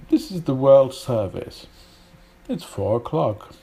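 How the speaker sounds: mock BBC World Service announcer. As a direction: announce it in standard British English. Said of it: "the B B C".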